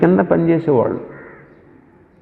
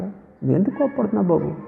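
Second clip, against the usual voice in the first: softer and higher, kind asking; gentle voicing of God; 6 semitones higher, 4 dB quieter than usual. God gently asks angry Cain, softly and kindly. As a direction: ask like a patient father. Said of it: "ఎంత చక్కగా మాట్లాడుతున్నాడు".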